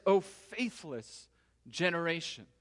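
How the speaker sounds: slow, drawn-out lament with a touch of exasperation; mild exasperation, weighed out slowly; exasperated. Acted. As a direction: draw out each word, mildly exasperated. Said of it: "because it sounds exasperated".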